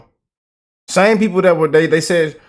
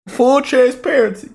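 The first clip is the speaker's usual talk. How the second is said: mock emotional; 10 semitones higher than usual. Mock-emotional reaction to briefing.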